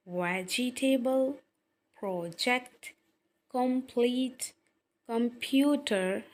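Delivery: word list read out with syllables separated. Shown as a demonstration. Teacher giving class syllable homework, words carefully sounded out. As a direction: give each word deliberately, with pauses between. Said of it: "इनके syllable बनाते हुए".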